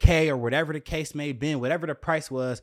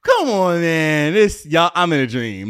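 a much louder outburst of disbelief; loud come on man, sheer disbelief; exasperated disbelief; 3 semitones higher, 9 dB louder, slower than usual. Retold or imitated. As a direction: cry out that it can't be real.

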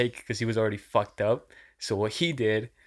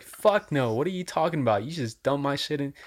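raised-pitch retold protest; indignant; 4 semitones higher than usual. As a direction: call him out, mildly outraged. Confronting man who dumped drink.

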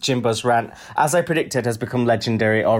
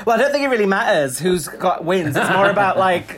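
dismissive excuse; 5 semitones higher than usual. Acted. Mimicking the winless contestant's excuse.

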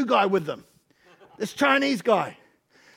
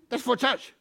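lightly imitated Chinese-accented English; 3 semitones higher than usual. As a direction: ask it in a mild mock Chinese accent. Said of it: "in this accent".

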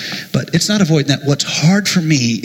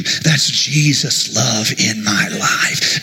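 tender slow; 5 semitones lower, slower than usual. Real, not acted. Slow low tender line.

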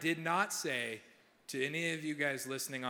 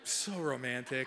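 slow, laughing sarcastic drawl; deadpan mock romance; dry sarcasm; 2 semitones lower, slower than usual. Real, not acted. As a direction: slowly savour the irony. Sarcasm about the trash park.

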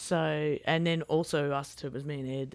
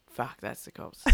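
hushed, softer whisper of alarm; whispered panic; 6 semitones lower, 8 dB quieter than usual. Retold or imitated. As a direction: whisper it as the sirens flash. Video moment sirens appear.

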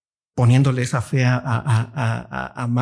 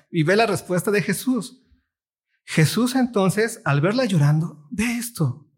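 raised emphatic reading; 5 semitones higher than usual. Shown as a demonstration. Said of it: "Ve las dos formas diferentes".

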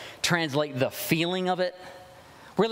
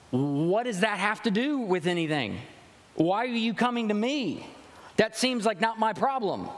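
higher-pitched acted brush-off; mock distancing; 4 semitones higher than usual. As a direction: push the request away as none of your business. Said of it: "used to bring distance between the two parties".

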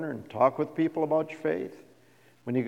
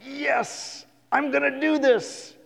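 high, bright imitation of a keen new believer; eager resolve; 12 semitones higher, slower than usual. New believer vowing to start strong, eager. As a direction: chirp it like a fresh convert.

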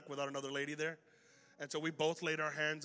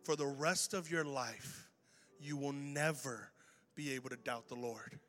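solemn assurance; 3 semitones lower, 5 dB quieter, slower than usual. Retold or imitated. Solemn charge to the two students.

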